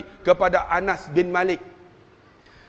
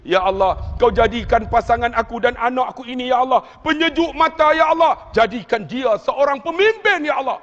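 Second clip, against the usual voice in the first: pleading that climbs higher; imitated tearful prayer; 3 semitones higher than usual. Preacher as weeping father praying for his child, rising plea. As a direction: implore God, pitch rising as it goes. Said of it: "dia ulang sambil menangis".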